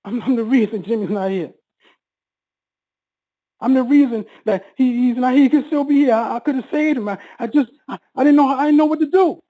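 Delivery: stammered guilty confession, rising in pitch; retold breakdown. Brother confessing guilt to his sister, retold breakdown. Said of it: "And I broke down".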